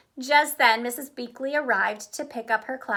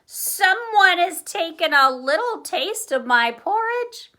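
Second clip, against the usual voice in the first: louder, higher indignant cry; 7 semitones higher, 6 dB louder than usual. Acted. Papa Bear complaining about his porridge, crying out loudly. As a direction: protest over the empty bowl. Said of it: "held the large empty bowl and cried".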